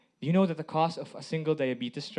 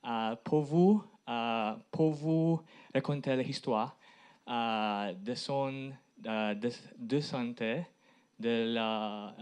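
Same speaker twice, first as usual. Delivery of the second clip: halting French with an English accent; foreign accent in French. Real, not acted. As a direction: speak careful, hesitant learner's French. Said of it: "Euh, pardon mon français". (français avec un accent étranger)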